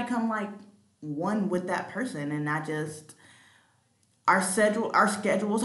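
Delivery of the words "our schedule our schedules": stumbled word, "schedule" restarted as "schedules"; tongue-tied. Real, not acted. Host fumbling "schedules" mid-list, tongue-tied. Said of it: "I cannot talk today".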